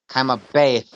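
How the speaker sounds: Kaima bay ending in an audible breathed H; emphasis on the hay. Shown as a demonstration. Teacher repeating the corrected reading, Kaima bay with stressed final H. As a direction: finish Kaima bay with a firm puff of h. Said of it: "The hay has an emphasis".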